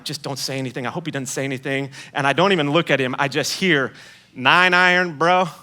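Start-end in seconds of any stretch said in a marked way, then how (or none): 0.0-1.9 much softer, hurried hope; anxious inner plea. Retold or imitated. Walking back to the golf cart, quietly pleading inside. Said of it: "I'm like". 4.3-5.5 a hint of a friend's knowing jab; teasing. Friend calling out his lie, lightly teasing. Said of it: "he said it like that".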